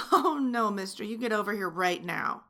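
playful stern command, loud on the first words; mock scolding. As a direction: play the strict flight attendant for him. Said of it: "How was that?".

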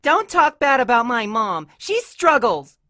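high, loud defence; indignant child. A narrator's reading. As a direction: defend mom hotly in a high voice. Scootaloo defends her mom in quarrel.

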